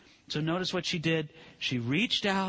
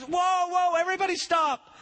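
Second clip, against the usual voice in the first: calling out; 10 semitones higher than usual. Acted. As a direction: call the whole crowd to a stop. Jesus calls the crowd to halt.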